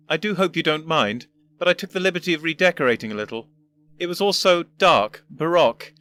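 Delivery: put-on a condescending old professor; pompous old gentleman. First Doctor continues.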